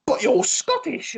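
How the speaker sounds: high, drawn-out mock disbelief; mock freak-out. People freak out that a Scot doesn't drink, mock freak-out. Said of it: "freak out because they're like".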